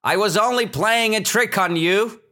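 high, sing-out acted confession; teasing shepherd boy. Shepherd boy admitting his trick to villagers, teasing. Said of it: "he said".

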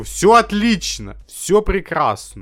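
slow, hammed-up cheerful; mock cheerful. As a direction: sell it like a forced official. Mock upbeat official line.

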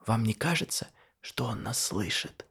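woman lowering her voice, suspicious. A narrator's reading. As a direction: drop the voice so he won't hear. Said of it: "добавил чуть тише".

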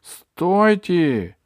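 loud, high cry to halt; shouting. A narrator's reading. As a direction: call out urgently to stop them. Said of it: "крикнула тогда Алиса". (громкий высокий окрик)

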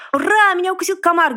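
высокий громкий радостный крик; ликуй от радости; ликование. A narrator's reading. Поросёнок ликует. (поросёнок радостно кричит ура)

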